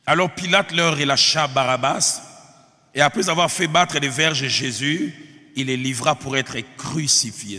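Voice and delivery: emphatic, deliberate pulpit reading; Scripture reading. Acted. Preacher reading the Passion to his congregation, emphatic Scripture reading. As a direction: read it out firmly to the congregation.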